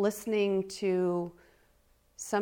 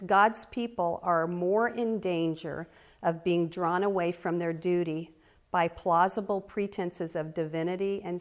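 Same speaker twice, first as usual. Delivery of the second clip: slow reading; 3 dB louder than usual. Real, not acted. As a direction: read it slowly so they can follow. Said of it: "I'm gonna read it slow".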